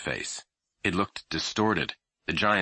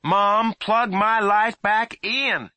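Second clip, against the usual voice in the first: firm, high, slow demand; sterner voice; 6 dB louder, much slower than usual. A narrator's reading. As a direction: say it sterner this time. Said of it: "he said in a sterner voice".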